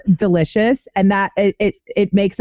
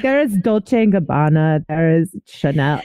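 put-on Anna Delvey accent. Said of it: "I can't do an accent like Trav can".

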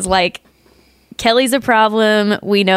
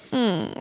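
imitated hum; 9 dB quieter than usual. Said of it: "I like the part where they go".

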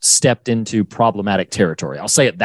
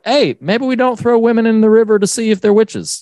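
earnest voice; 10 semitones higher than usual. Retold or imitated. Voicing Ralph.

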